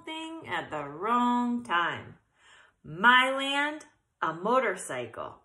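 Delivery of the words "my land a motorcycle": put-on old aunt exclaiming; a lightly voiced old aunt; first try. Shown as a demonstration. Old aunt shocked by the motorcycle, first read. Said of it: "let me read that again".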